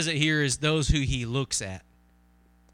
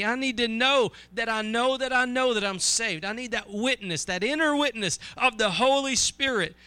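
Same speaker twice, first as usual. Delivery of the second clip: higher-pitched, insistent pleading litany; impassioned plea; 5 semitones higher than usual. Acted. Preacher voices a believer's needs to God, impassioned plea. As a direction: pile up each need without letting the pitch drop.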